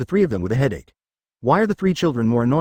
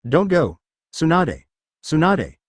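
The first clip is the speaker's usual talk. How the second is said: put-on raised, sharp child's protest; angry; 4 semitones higher, slower than usual. A narrator's reading. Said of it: "He said angrily".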